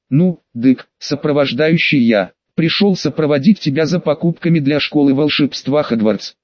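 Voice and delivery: ordinary delivery, nothing marked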